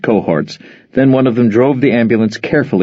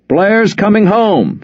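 high, slow, loud repeat; repeated loudly; 11 semitones higher, slower than usual. Acted. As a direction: announce it to everyone. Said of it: "Frohmeyer repeated loudly".

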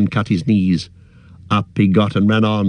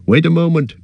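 higher, urgent call; raised-pitch cry of restraint; cried out; 7 semitones higher, faster than usual. A narrator's reading. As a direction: call out to halt them. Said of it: "cried Aragorn".

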